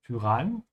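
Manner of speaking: Tyrann with the y said as German Ü; Tyrann, its first vowel an Ü. Shown as a demonstration. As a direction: round the lips for the y in Tyrann. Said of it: "pronounce it with a bit of an Ü".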